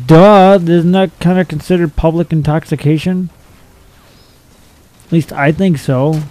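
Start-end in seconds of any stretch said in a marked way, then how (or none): 0.1-3.3 sarcastic duh. Real, not acted. Obvious law, sarcastic reply.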